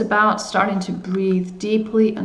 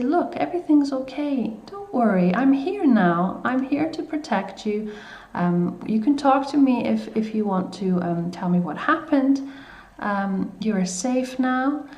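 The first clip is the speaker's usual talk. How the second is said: put-on gentle, unhurried comforting of a scared little child; reassuring a frightened child. Shown as a demonstration. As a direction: soothe them as if giving a hug. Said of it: "spoken to in a reassuring way".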